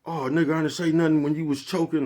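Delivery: high, loud mock defensive retort; deflecting comeback. Caught choking an old man, deflects onto friend: high, loud mock defensive retort. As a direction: toss the blame back in a high, loud voice. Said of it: "say some shit like".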